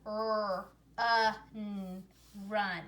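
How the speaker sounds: "r, uh, n" as drawn-out single sounds, then "run"; sounding out. Shown as a demonstration. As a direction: sound out "r, uh, n, run" for young readers. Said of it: "make its short sound uh".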